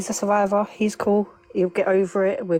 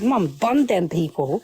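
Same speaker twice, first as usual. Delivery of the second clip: imitating son; 4 dB louder, slower than usual. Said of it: "He says".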